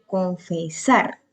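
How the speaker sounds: "confesar" slowly, weight on final SAR; teacher's slow "con-fe-SAR"; stress on SAR. Shown as a demonstration. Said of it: "Sar tiene acento".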